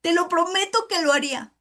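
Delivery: pleading with the Lord, voice starting to crack; voice breaking. Real, not acted. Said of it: "todavía se me corta la voz".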